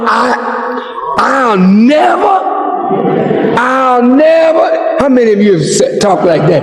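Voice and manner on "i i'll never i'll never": half-sobbed, slowed pleas with cries of "Ma"; mock tearful begging. Son in a cell begging his mother to bail him out, tearful pleading. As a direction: beg like a jailed son near tears.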